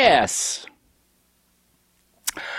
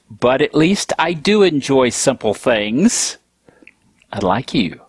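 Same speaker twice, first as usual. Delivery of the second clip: teasing whisper; 5 semitones lower than usual. Acted. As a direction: whisper it to Fred with a smirk. Teasing aside to Fred.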